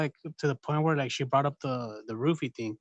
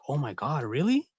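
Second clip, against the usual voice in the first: mock shocked. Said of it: "They're all like, all shocked".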